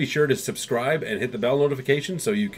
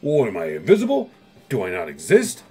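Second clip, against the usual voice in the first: cranky; 4 dB louder than usual. Retold or imitated. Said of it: "he's getting cranky".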